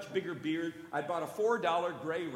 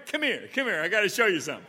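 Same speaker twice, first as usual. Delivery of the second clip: louder, higher eager call; mock excited friend; 4 semitones higher, 7 dB louder, faster than usual. A shopper calls a friend over, eager and loud.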